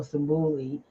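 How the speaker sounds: "Simbuli" with an oo in the middle; pronunciation variant. Shown as a demonstration. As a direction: offer "Simbuli", middle syllable like "boo". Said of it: "spelled and pronounced".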